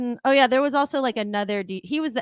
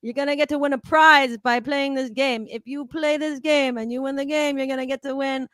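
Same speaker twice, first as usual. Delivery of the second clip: 1 DJ voice; 5 semitones higher, 6 dB louder than usual. Retold or imitated. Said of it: "And he goes".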